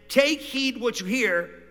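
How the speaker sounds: each word drawn out slowly; slow scripture reading. Shown as a demonstration. Pastor reading Mark chapter four to the church, slowly. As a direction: lay the verse down slowly, word by word. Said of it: "He said in them".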